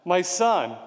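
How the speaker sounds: mildly acted cry of a bereaved father; grieving father's cry. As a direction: call out in mourning, with restraint. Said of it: "the cry of a father".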